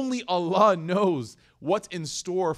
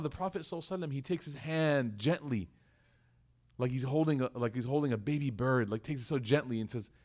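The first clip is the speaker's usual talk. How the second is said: hushed, lower, tender telling; gentle; 4 semitones lower, 4 dB quieter, faster than usual. Real, not acted. Describes gentle handling, like baby bird.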